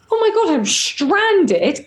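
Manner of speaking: slow, drawn-out mock despair; a dramatic little wail of being stranded; mock stranded panic. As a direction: stretch it out like you're lost forever. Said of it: "So I'm just like".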